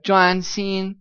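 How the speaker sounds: Juan Xin both held flat; flat tone on each syllable; level tones juan xin. Shown as a demonstration. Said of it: "we have it twice".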